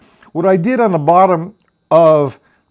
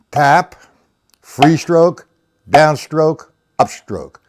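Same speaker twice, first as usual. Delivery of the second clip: calling strokes in tempo; slower than usual. Shown as a demonstration. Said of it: "Do that for a little bit".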